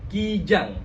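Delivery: KIJANG with a bright, clear "ee" in the first syllable; wide smiling KI. Shown as a demonstration. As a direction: spread the lips on KIJANG. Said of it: "ini harus tersenyum lebar".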